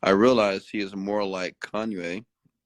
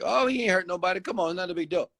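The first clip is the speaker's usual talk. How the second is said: mock dismissive defender; 10 semitones higher, faster than usual. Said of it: "that's what the black person gonna say".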